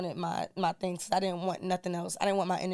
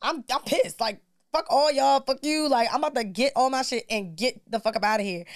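higher, fired-up retold anger; 4 semitones higher than usual. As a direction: vent like she did then. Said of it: "I was like".

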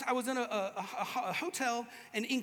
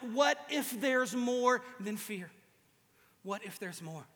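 slow wonder; 3 semitones lower, slower than usual. Retold or imitated. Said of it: "I suddenly went".

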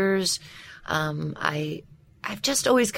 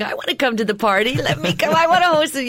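1 voices wanting in; 6 semitones higher, 3 dB louder than usual. Retold or imitated. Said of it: "all coming to the surface going".

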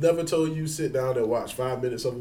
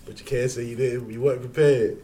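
smooth, emphatic commercial pitch with a hint of laughter; mock ad read; 4 dB louder than usual. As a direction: sell it like a radio sponsor spot. Improvised mock sponsor read.

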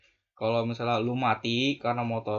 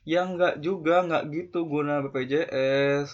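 higher, louder sharp rebuttal; loud retort; 4 semitones higher, 5 dB louder than usual. Real, not acted. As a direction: shoot the excuse down loudly. Retort to BPJS excuse. (bantahan keras)

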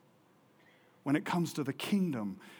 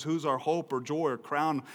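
preacher reading Paul's praise, climbing louder; rising preaching; 4 semitones higher, 7 dB louder than usual. Acted. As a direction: build the verse toward triumph. Preaching scripture.

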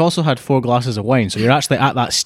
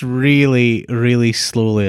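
drawn out; much slower than usual. Shown as a demonstration. Mimicking friend's slow speech.

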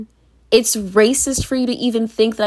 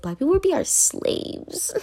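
mock racist voice; 8 semitones higher, 7 dB quieter than usual. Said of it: "you're just like".

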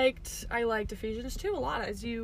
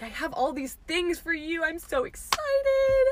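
mock excited God; 5 semitones higher, 3 dB louder than usual. God voiced as eager and excited.

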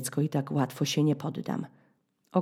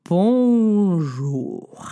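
Polish-accented French bonjour, drawn out and louder; a slow, louder Bonjour with a Polish accent; 6 dB louder than usual. Shown as a demonstration. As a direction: stretch Bonjour slowly with a foreign accent. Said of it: "Z akcentem".

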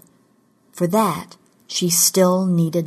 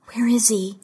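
higher-pitched, pressing question; demanding; 4 semitones higher than usual. A narrator's reading. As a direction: demand an answer from a captor. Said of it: "she demanded".

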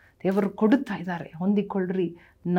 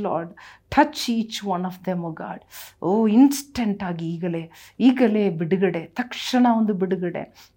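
rising, impassioned preaching voice; fervent preaching; 4 dB louder than usual. Acted. Pastor preaching healing to the congregation, fervent. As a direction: preach healing to the crowd with fire. Full-force healing sermon.

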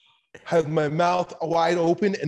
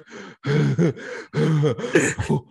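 spent laughter. Retold or imitated. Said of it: "And then I'm like".

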